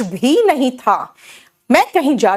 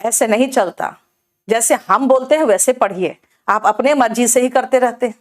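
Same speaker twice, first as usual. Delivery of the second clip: Bihari way of talking. Retold or imitated. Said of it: "जैसे हम लोग बिहार में कहते हैं".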